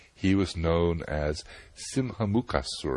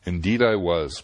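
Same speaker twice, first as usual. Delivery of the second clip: a mild, louder protest; 5 dB louder than usual. Acted. Sage protests to Surasai, mild louder protest. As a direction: insist a little, understated. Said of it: "protested the sage".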